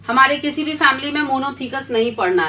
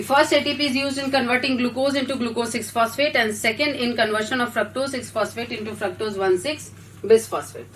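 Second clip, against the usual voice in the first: reading the answer out very slowly for notes; slow dictation; 3 dB quieter, much slower than usual. Acted. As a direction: dictate each word so the class can copy it.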